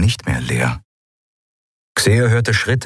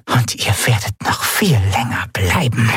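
a wounded enemy's hushed menace; eerie whisper; 3 semitones higher than usual. A narrator's reading. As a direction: breathe the threat from the corner. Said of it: "wisperte eine Stimme". (unheimlich gewispert)

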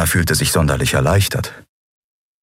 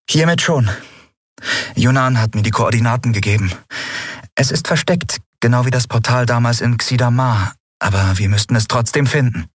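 higher-pitched heroine voice; captain explaining the plan; 5 semitones higher than usual. Acted. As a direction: explain it to the crew in a lifted voice. Captain explains the plan to her crew.

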